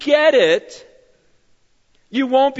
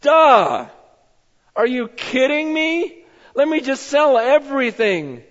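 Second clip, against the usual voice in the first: eager discoverer; 2 semitones higher, slower than usual. Retold or imitated. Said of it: "a guy that just goes".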